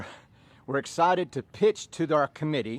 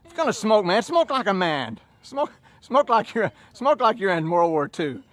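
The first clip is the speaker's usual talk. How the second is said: mocking Frenchman; 6 semitones higher, 5 dB louder than usual. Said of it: "And he goes".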